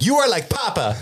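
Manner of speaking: high-pitched mock accusation; accusing orc children. Orc children turning on the elf, mock upset. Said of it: "They were like".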